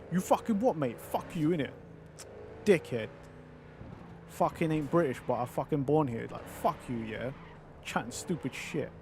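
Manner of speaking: mock-angry London roadman slang, lightly put on; angry roadman London accent. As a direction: rant like a London roadman, with a few pitch jumps early on. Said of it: "roadman, full-on London".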